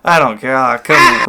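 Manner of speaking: mock-cheerful brush-off that swells at the end; mock giddy. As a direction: gush as if absurdly unbothered, ending loud. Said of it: "get all giddy and happy".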